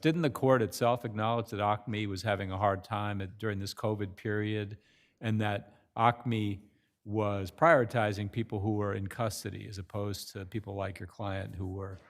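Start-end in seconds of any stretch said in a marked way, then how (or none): 0.0-7.5 slowed down. Real, not acted. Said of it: "I'm talking too fast".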